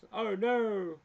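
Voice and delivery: sudden high "oh no"; surprised. Real, not acted. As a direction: caught off guard, a real shock. Sees his email address shown.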